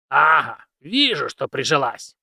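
put-on pleased old man voice; satisfied old mentor, slow. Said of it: "довольно заключил старик".

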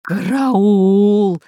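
loud wheezing call for help; hoarse cry. A narrator's reading. Pirate squeezed by the plant, loud hoarse cry. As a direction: croak out the alarm hoarsely. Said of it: "хрипел пират Бульбуль".

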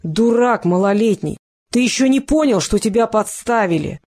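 slow, hammered-out yell; shouting. Acted. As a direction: bellow it right into his ear. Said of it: "и заорал ему в самое ухо".

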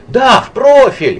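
high, loud and slow cry; excited shout. A narrator's reading. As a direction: shout it out eagerly. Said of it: "крикнула Лида".

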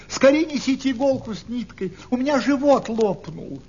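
high-pitched plea for help; high storybook cry, without real shouting; mouse crying out. A narrator's reading. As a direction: plead urgently in a high little mouse voice. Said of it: "закричала мышка".

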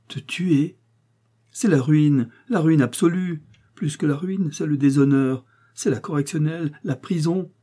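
husband tells his wife of prison, anguished; voiced husband, anguished. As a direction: spell out the disaster in anguish. Husband lists his ruin.

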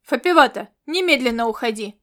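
loud call of her name, then the order; urgent shout. Acted. Commander shouting to Fapivata to get away. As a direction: yell her out of danger.

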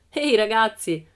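calling out. A narrator's reading. Bengt calling to his gang, shouting over. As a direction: call the others over.

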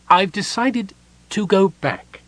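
high kender voice, slow and thoughtful; a light kender voice turned solemn; serious kender. A narrator's reading. Kender tells Palin he will go back, slow and solemn.

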